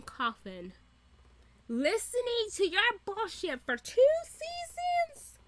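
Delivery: imagined tirade, building to a high squeal; pissed off. Pretend. Fan imagining being the wronged interviewer, mock fury. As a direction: rant in comic outrage, climbing in pitch. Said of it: "so pissed the fuck off".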